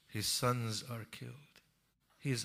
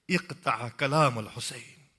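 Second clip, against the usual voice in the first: commanding shout; 15 dB louder than usual. Acted. Umar ibn Saad orders Hurmala to shoot, rising commanding shout. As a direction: shout the order to cut him off.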